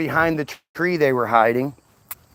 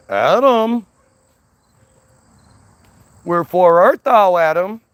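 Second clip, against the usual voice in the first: calling out; 3 semitones higher, 4 dB louder than usual. Retold or imitated. God calling out for Adam.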